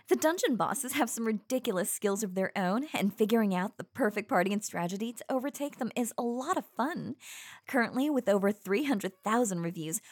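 upbeat sponsor read; chirpy YouTuber ad voice; YouTube voice. Acted. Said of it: "Back to the ad read".

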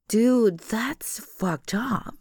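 breathy, slow, disgusted whisper. Acted. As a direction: back away and whisper it in disgust. Recoils at his confession.

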